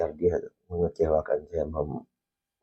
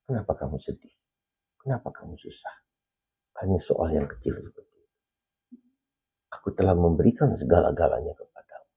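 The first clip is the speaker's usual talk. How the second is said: voice of God; 3 dB quieter than usual. Retold or imitated. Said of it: "Dikatakan begini".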